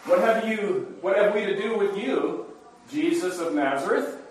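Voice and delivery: crying out. Acted. Possessed man confronts Jesus of Nazareth, crying out. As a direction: cry out in mild protest. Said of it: "the man, cried out".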